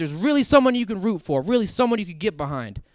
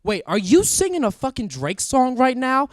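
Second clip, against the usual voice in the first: incredulous; 6 semitones higher, 3 dB louder than usual. Retold or imitated. Driver reacts to cop's song lyrics.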